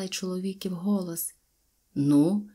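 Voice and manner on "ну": loud, low gruff call; loud low demanding call. A narrator's reading. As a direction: bark it out across the clearing. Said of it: "гукнув він".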